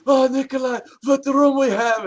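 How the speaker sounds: high-pitched caricature voice; the Iron Sheik. Retold or imitated. Sheik calls to his roommate in the lobby, imitated high voice. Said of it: "Sheik said".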